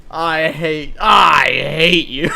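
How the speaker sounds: slow, wailing hammy cry; overacted betrayed shout; mock anguished yell. Mock outrage at friend.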